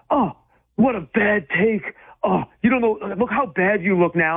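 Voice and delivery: whiny mock complaint, stretched out; mocking fans. Pundit imitating fans slamming his Josh Hart tweet, mock whining.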